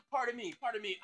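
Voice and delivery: throat still catching after a cough; after choking. Real, not acted. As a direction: clear your throat as you excuse yourself. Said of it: "I'm choking on my own spit".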